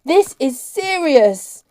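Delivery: very loud, high-pitched bellow; full-force shouted commands, slowing at the end. A narrator's reading. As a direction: bellow orders over the din. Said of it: "Cart was bellowing".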